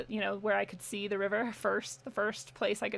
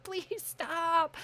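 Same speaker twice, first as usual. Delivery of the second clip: high, pleading mock yell; retold scream; 8 semitones higher than usual. Owner begging her runaway dog, mock scream. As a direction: imitate a desperate call at contained volume.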